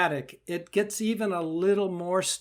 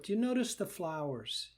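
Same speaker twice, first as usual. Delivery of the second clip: soft, coaxing invitation; gentle guiding voice; 6 dB quieter than usual. Shown as a demonstration. Teacher guiding the hurt part to the yard, soft and coaxing. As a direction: lead them softly toward something nice. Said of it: "back and forth".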